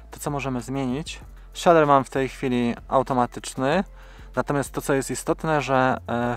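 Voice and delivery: usual speaking voice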